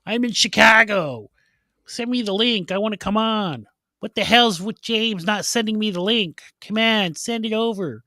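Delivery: insistent mock messages from a friend; imitating absent friend. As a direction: put on a high voice, nagging for attention. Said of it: "he would have been messaging".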